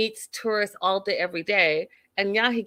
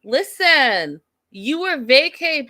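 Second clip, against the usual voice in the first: eye-rolling dismissal; 7 semitones higher, 6 dB louder, slower than usual. Retold or imitated. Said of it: "Sherlin rolls his eyes".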